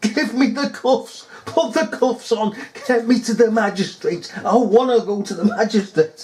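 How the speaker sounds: high, insistent mock shout; retold shouting. Demanding arrest from the officer, retold high shouting. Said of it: "I'm shouting at him".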